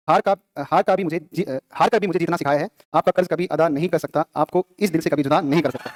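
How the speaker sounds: slow, deliberate verse reading; poem recitation. Real, not acted. Teacher reads verses about a guru, slow poem recitation. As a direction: draw out each line, letting it settle at the end.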